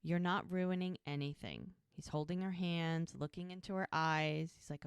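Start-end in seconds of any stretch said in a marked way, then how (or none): 0.0-1.8 gentle, understated reassurance; retold tender comfort, a little subdued; so sweet. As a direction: softly reassure a loved one. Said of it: "he's so sweet".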